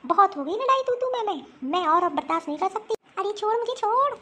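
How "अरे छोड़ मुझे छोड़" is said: high desperate yell; shout to let go. Acted. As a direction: yank free while shouting. Fight, struggling free.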